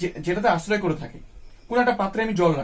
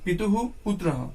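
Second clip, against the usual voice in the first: slow recitation. Shown as a demonstration. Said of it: "পিতুহু উচ্চারণটা হচ্ছে".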